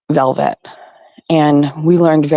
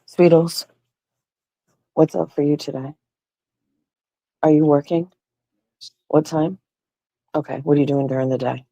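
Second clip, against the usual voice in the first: firm but sweet parent check-in; mom voice; 3 semitones higher than usual. Acted. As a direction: quiz the teen like a caring mom. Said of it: "I have to use my mom voice".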